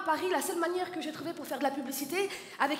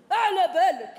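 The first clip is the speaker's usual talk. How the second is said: put-on Algerian accent; 3 semitones higher than usual. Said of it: "légèrement plus virulent". (accent algérien, fort et appuyé)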